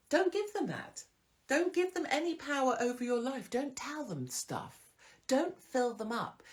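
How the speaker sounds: high, urgent insistence; emphatic. Real, not acted. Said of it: "urgent advice".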